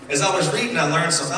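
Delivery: a bit out of breath after juggling. Real, not acted. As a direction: talk while catching breath. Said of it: "I don't know why I'm out of breath".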